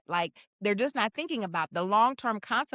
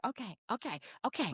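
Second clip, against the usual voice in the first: soft, soothing mock reassurance; talking someone down; 11 dB quieter than usual. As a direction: hush them gently, much softer. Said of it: "having to talk you down".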